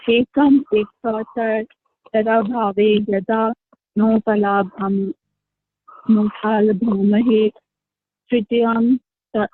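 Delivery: slow, careful verse recitation; Sanskrit recitation. Acted. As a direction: recite each Sanskrit word slowly.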